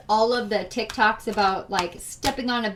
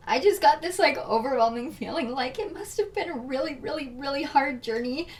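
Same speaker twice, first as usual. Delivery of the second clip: emotional; 3 semitones higher than usual. Real, not acted. Reader moved by listeners' hard journey, emotional. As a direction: let the emotion lift your voice. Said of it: "I don't know why I'm getting emotional".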